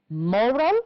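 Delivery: moral, stressed on MO, rising as in a list; stress on first syllable. Shown as a demonstration. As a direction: stress MO in moral, then lift the end. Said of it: "stressed on the first syllable".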